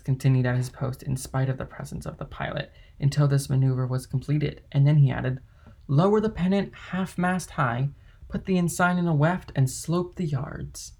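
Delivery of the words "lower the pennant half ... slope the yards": higher-pitched shipboard command, slowing at the end; calling out orders. A narrator's reading. Dantès ordering the crew about the pennant, calling out. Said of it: "calling to the crew".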